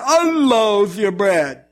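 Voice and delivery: very slow and scornful; contemptuous sneer. Retold or imitated. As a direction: drag out the insult. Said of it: "You don't say that to God".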